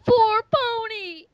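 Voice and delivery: outro call. Acted. Friend ending the episode for viewers. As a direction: proclaim it like a motto.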